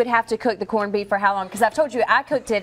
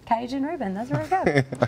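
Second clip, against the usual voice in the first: country Southern accent; 3 semitones higher, 4 dB quieter than usual. Shown as a demonstration. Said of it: "I would sound so country saying".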